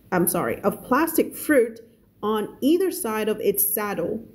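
slow, measured English reading; story read-aloud. Shown as a demonstration. Teacher reading a novel to learners, slow narration. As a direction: read it slowly, word by word, for learners.

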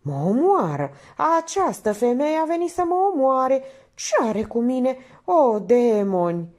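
loud, high, exasperated wailing; bellowing outburst. A narrator's reading. Painter cursing the woman who torments him, bellowing. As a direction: rant in melodramatic despair. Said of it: "tresărea parcă lovită la fiecare răcnet".

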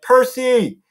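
high-pitched urgent name call; sudden call. A narrator's reading. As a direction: startle him with his name. Invisible Annabeth suddenly calls Percy.

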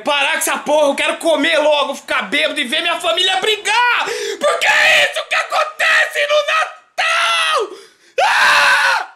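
rising to a high furious shout; rant, building to a scream; angry rant. Real, not acted. Ranting against Christmas. (desabafo raivoso aos gritos)

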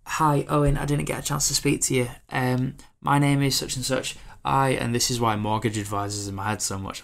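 lightly voiced chirpy saleswoman; mock eager saleswoman. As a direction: play a keen networker pitching herself. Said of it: "come to me and go".

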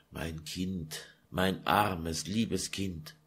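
put-on calm her like a crying child; hushing. Mother hushing her weeping daughter, very soft.

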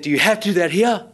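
put-on snappish objection; snapped retort. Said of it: "turned around and snapped at me".

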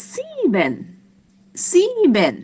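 "sieben" with long high first syllable, falling second; German sieben demonstration. Shown as a demonstration. Teacher introduces German seven, high falling "sieben". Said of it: "เราจะออกเสียงว่า".

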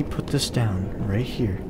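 fast, soft whisper; sneaky whisper. Real, not acted. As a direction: whisper to stay hidden. Sneaking past monster.

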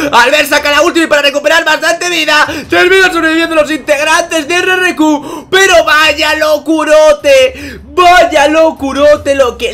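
very high, loud shouted call, slowing to stretched hype; excited play-by-play. Acted. Caster hyping Rashi's ultimate to viewers, shouting. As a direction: scream the big ultimate at full force.

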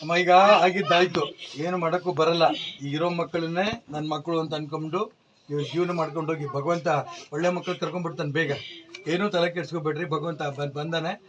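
soft, low, tender reassurance; gentle consolation. Real, not acted. The visitor softly consoles the mother who lost her son.

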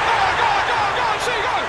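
shouted goal call, high and loud; breakneck goal commentary. Acted. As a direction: yell the goal call at full speed. Goal called in game commentary.

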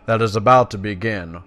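formal, emphatic briefing from a druid elder; dramatic game dialogue reading; quest-giver read-aloud. Acted. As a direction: lay out the mission like a quest giver. Reads quest text aloud.

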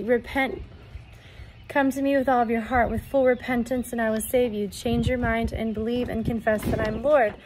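loud, urgent proclamation in God's voice; forceful prophetic preaching. Acted. Delivers message in God's voice.

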